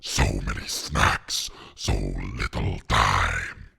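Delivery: deep, slow monster rasp; Venom. Pretend. Streamer imagining the monster listing its snacks, slow deep rasp. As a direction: savour each word in a low, growling creature voice. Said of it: "Venom would be like".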